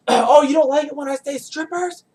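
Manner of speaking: high mocking taunt, repeating the word; taunting yell. Drunk girl taunting him in the club, high and mocking. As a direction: jeer at him in a high sing-song. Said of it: "she starts yelling it out".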